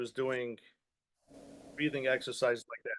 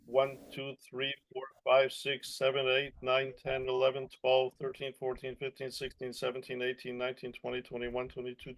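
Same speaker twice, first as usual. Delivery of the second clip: counting on one held breath; holding breath; 2 semitones lower, 4 dB quieter than usual. Shown as a demonstration. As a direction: count steadily without taking a breath. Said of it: "I could even talk while I'm holding my breath".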